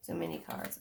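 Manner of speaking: soft whisper under the breath; barely voiced whisper while sorting cards; whispered to herself. Real, not acted. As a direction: whisper it as a private note. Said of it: "Okay, too many cards".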